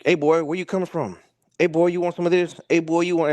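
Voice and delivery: jeering bar bully voice; redneck taunt. Retold or imitated. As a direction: taunt him like a swaggering redneck. Redneck taunting friend in diner.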